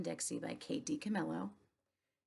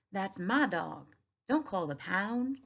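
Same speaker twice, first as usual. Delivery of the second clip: urgent plea; 4 dB louder, slower than usual. Acted. Opal defends dog.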